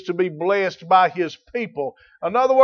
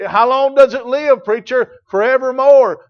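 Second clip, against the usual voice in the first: preaching shout; 5 semitones higher, 7 dB louder than usual. Real, not acted. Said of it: "asks and answers himself".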